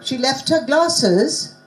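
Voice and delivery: "She left her glasses" slow, turned into a question; question intonation. Shown as a demonstration. Teacher quizzing the class on tones, "She left her glasses" as a slow question.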